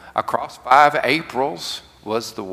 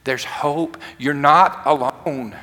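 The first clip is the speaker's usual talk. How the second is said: gentle voice of God. Acted. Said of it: "It said".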